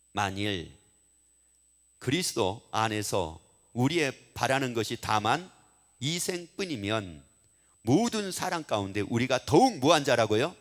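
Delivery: slow, measured Bible reading; low, unhurried reading from scripture. Real, not acted. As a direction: read the verse out deliberately, phrase by phrase. Reads a Bible verse aloud.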